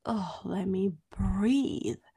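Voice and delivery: long, drawn-out exasperated plea; acted weary protest; feeling smothered. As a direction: stretch it out slowly, begging for space. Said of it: "it's a feeling of".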